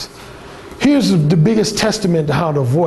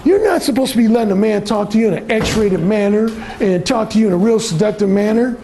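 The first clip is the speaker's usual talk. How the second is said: voice of social programming; 4 semitones higher than usual. Retold or imitated. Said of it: "that social programming voice is saying".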